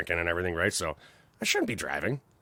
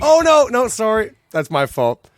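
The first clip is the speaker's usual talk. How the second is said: mock apology; 12 semitones higher, 12 dB louder, slower than usual. Mock apology after insult.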